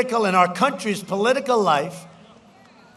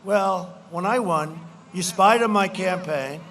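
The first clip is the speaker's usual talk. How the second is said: retold angry retort. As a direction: throw the accusation back hard. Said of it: "I said".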